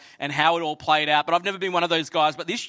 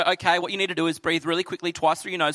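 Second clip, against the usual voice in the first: faster breezy self-help voice; mock self-help guru; faster than usual. Pastor mocking self-help advice, breezy and fast. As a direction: parody a wellness coach. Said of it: "not me gonna go".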